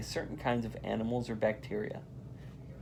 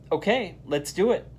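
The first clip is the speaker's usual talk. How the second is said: a bright call of agreement, a touch higher; eager shout; 6 semitones higher, 4 dB louder than usual. A narrator's reading. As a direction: answer all together, keen. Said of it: "her friends shout".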